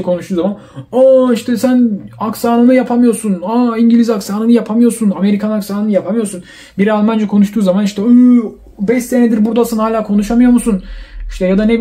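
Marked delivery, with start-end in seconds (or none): 0.9-6.4 raised, exclaiming fault-finder; mock criticism. Onlooker judging someone's English accent, mock scornful. 8.0-10.8 slightly raised, disbelieving jibe; mock scorn. Critic shaming a five-year resident's German, mock scornful.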